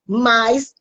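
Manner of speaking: slow, tearful joy; real tears breaking through while smiling; moved to tears. Real, not acted. Telling the live audience of her joy, tearfully. Testimony of joy after years.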